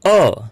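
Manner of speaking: "અ" as a short isolated uh; phonics vowel sound. Shown as a demonstration. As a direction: model "અ" alone, not the letter name "યુ". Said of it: "આનો phonics ઉચ્ચાર છે". ("અ"નો ટૂંકો, છૂટો phonics ઉચ્ચાર)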